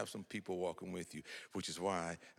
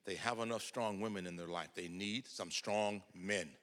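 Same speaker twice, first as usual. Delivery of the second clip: stern. Retold or imitated. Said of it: "very sternly and said".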